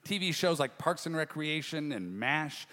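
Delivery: measured, projected announcer delivery; show host introduction. Real, not acted.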